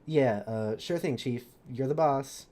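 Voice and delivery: low, casual urchin character voice; lightly voiced street rogue; Mikhail. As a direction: give in with a low-pitched, offhand voice. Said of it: "says Mikhail".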